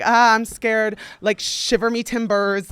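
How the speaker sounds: hammed-up pretend trembling; mock fear. Answering the guy's empty threat, sarcastically scared.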